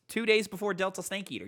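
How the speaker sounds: ordinary talk, nothing marked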